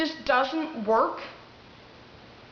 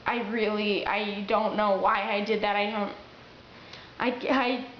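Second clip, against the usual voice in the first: quavery, upset; 3 semitones lower than usual. Shown as a demonstration. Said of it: "your voice sounds quavery".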